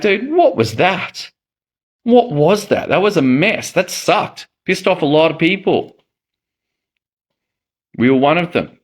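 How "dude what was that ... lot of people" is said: exasperated disbelief. Retold or imitated. Exasperated at greedy developer.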